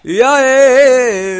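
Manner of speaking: slow, loud, high stammering; panicked stammer. Real, not acted. Gamer panicking at a zombie, loud stammer. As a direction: stumble over the words in fright.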